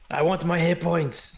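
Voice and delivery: whiny. Real, not acted. Whining for lost hit points.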